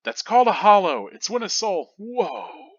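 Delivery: high, fast excited voice; quick excited chatter; eager explainer. Acted. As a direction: blurt it out then startle. Explaining then startled.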